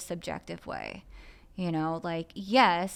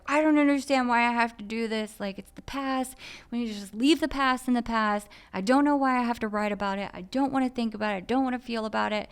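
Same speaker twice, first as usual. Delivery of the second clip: exploding outburst; 4 semitones higher than usual. Retold or imitated. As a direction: spill the frustration out fast, reliving the outburst. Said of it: "broke down and exploded".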